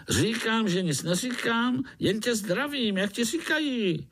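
sing-song jolly insect; chatty foreign mosquito; mosquito Pišta. Acted.

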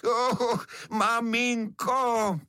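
high wailing for mother; crying out. A narrator's reading. Smoky little beetle crying out to his mother. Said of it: "a křičí, a křičí".

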